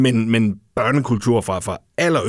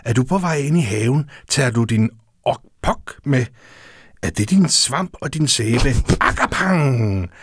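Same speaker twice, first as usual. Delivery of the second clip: soft cosy storytelling. Shown as a demonstration. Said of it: "Må jeg læse, læse lidt op af den?".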